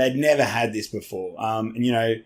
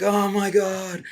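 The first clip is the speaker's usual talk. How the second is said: gushing fanboy; 8 semitones higher than usual. Retold or imitated. Director meeting Dave, mock starstruck fanboy gush. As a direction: play the director meeting his hero. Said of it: "full fanboy grabbed his hand".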